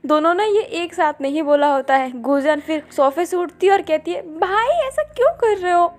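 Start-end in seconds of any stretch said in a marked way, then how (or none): 4.4-5.9 higher, crying plea to her brothers; tearful plea. Acted. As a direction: beg through tears. Sister pleads as brothers threaten.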